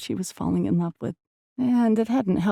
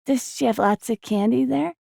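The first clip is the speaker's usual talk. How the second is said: put-on curious little boy; 7 semitones higher than usual. A narrator's reading. Child keeps asking.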